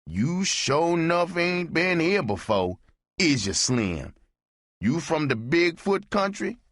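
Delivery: high teasing barfly voice; Amos teasing. Acted. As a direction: rib the newcomer in a high put-on voice. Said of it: "Amos said".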